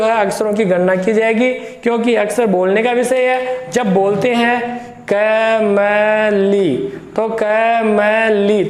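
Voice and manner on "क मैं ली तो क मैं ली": syllable by syllable. Shown as a demonstration. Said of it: "तीन ही टुकड़े में".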